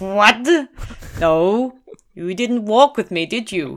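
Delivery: put-on Welsh accent, laid on thick. Speaking to a fellow trekker, in a Michael Sheen-like accent. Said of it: "You literally sound like Michael Sheen".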